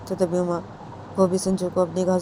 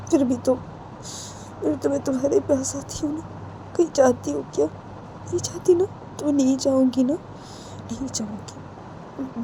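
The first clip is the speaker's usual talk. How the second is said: higher, coaxing promise that fades to a whisper; tender reassurance; 5 semitones higher, 3 dB quieter than usual. Acted. Uma telling clinging Sanju she loves him, tender reassurance. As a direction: reassure lovingly, with soft questioning "हाँ?".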